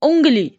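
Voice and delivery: उंगली with the first vowel sung through the nose; nasal ung sound. Shown as a demonstration. Teacher to students: उंगली with a clear nasal vowel. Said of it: "उच्चारण कीजिए".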